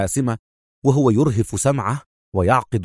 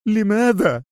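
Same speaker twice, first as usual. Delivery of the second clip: high, indignant outburst; exasperated cry; 11 semitones higher than usual. A narrator's reading. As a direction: demand it angrily in a high pitch. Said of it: "صاح خالد في حنق".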